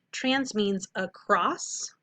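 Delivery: very slow call-and-repeat chant; slow vocab drill; slow choral model. Shown as a demonstration. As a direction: model "Trans means across or beyond" slowly for the class to echo. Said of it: "do that with me".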